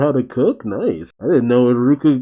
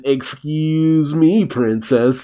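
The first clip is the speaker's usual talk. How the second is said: mock excuse me princess; 4 semitones higher, much slower than usual. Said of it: "Feels like such an".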